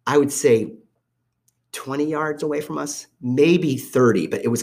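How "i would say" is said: whispered aside. Real, not acted. Breathy aside mid-story.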